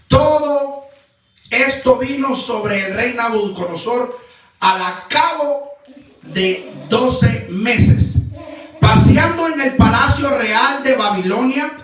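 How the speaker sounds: emphatic, declamatory Bible reading; scripture reading. Acted. Preacher reading the king's judgment to his congregation, solemn proclamation. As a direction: proclaim the verses in weighty, measured phrases.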